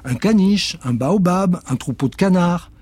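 très aigu et fort sur la formule; s'exclame en lançant le sort; sorcière lance le sort. Acted. Witch spell. (la sorcière offre un lot de consolation, aiguë)

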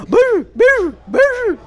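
high, loud toothless cry; high, loud toothless shout of béju; grandfather's cry. Acted. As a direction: bellow it like a toothless old man calling out. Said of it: "avant que le cri ne reprenne".

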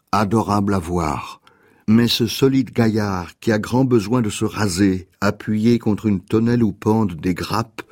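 measured, understated verse reading; poem reading. Acted. Reads a poem aloud.

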